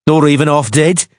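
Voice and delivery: high cackling jeer. A narrator's reading. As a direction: cackle out the question. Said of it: "Brick cackled".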